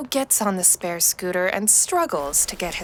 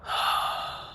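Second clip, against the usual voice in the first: long unvoiced sigh of relief; a soft exhaled sigh of freedom; deep sigh; 6 dB quieter than usual. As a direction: let all the air out, relieved. First breath of freedom.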